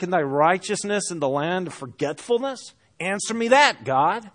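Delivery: pointed, irreverent demand for an answer; not holding back. Acted. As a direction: challenge God with bitter rhetorical questions. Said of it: "So he's not holding back".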